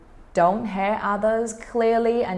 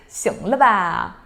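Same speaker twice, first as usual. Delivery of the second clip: slow, mildly annoyed with a laugh; a hint of exasperation; 6 dB louder, slower than usual. Shown as a demonstration. Teacher shows being fed up, slow and annoyed. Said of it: "As you can see from my intonation".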